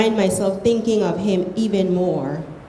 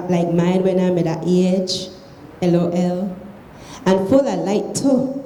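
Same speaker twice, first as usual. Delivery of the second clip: reading aloud in Krio; Sierra Leone Creole. Shown as a demonstration. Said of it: "read it in Creole".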